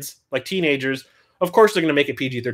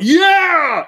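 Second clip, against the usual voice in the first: high, loud cheer of joy; excited yell; 14 semitones higher, 5 dB louder than usual. Retold or imitated. Fan cheering out loud in the theater, high excited yell. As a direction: leap up and cheer at the screen. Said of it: "stood up in the theater and went".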